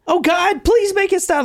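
high, desperate plea to God; mock hysterical pleading. Katie begging God to end the chaos, high and tearful. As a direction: wail it up high. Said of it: "She's crying hysterically".

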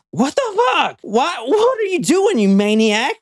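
high, frantic terrified outburst; freed from a chokehold, she cries out; panicked victim. Acted. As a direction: shriek it at him in panic. Victim voiced after being released.

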